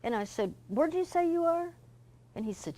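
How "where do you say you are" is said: retold question, pitched much higher in alarm. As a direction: ask it high and alarmed, as if the mistake is sinking in. Finding out he flew elsewhere.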